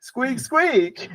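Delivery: high squeaks like a hamster; squeaky hamster voice. Acted.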